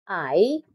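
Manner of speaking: I-D-E-A spelled letter by letter; I-D-E-A named as separate letters. Shown as a demonstration. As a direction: spell out I-D-E-A, each letter apart. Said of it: "Next, idea".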